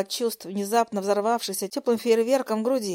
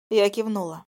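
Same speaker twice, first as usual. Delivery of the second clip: ordinary delivery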